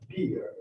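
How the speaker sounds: "beer" with an ee-er vowel, meaning bear; bear mispronounced beer. Retold or imitated. Teacher imitating students talking about their toys, bear mispronounced. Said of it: "it's not bear. It's teddy bear".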